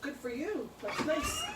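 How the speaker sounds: calling out, bright and praising; muffled praise through the door. Real, not acted. Praising the neighbor boy.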